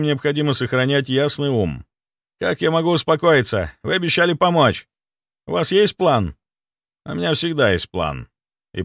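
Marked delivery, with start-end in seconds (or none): 2.4-6.4 high, anxious middle-aged doctor voice; frantic, pitched up with worry; panicking clinic head. Acted. Clinic head panicking to the doctor, high and anxious.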